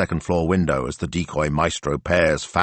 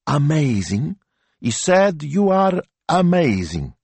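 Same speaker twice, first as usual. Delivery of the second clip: excited; 10 semitones higher, 3 dB louder, slower than usual. A narrator's reading. Finds the word, declares.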